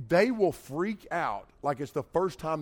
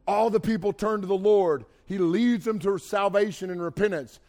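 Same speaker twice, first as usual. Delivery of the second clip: grand proclamation; 2 semitones higher, 4 dB louder than usual. Acted. Builds up Elijah as mighty prophet.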